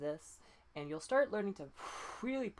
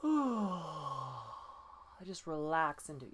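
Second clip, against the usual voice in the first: slow yawning through the words; natural yawn; 2 semitones lower, much slower than usual. Shown as a demonstration. Coach showing a relaxed yawn. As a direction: yawn and melt into it. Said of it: "like so".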